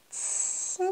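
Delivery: « Qi » chuchoté, sans voix; « Qi » soufflé, très doux; qi tout doucement. Shown as a demonstration. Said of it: "prononcez tout doucement". (qi prononcé en douceur)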